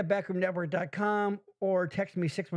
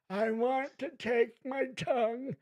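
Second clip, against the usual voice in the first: sexy voice; 5 semitones higher, 4 dB quieter than usual. Acted. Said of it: "I'll read it in a sexy voice".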